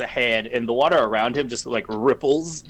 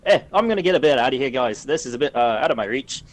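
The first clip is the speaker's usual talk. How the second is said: put-on a rough, fast Australian accent, a bit louder at the start; 2 semitones higher, 4 dB louder, faster than usual. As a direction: try again for the Australian accent, rushed. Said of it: "Australian accent's hard to get for me".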